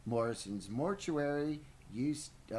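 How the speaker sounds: slow, lightly put-on receptionist; joke phone greeting. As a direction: answer the phone as a prank, drawn out. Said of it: "elaborate ways to answer the telephone".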